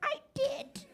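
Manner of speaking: loud, high-pitched cornered outburst; desperate yelling. Acted. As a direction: blurt it out loudly, hammed-up and cornered. Acted desperate apology under questioning.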